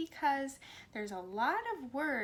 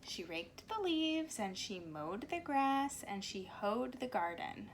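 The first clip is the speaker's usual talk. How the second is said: put-on reading to children. A narrator's reading. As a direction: read it like story time on the carpet. Reads picture book to children.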